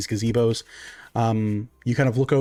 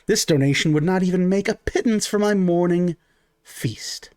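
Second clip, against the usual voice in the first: greedy pixie priestess; 4 semitones higher than usual. Acted.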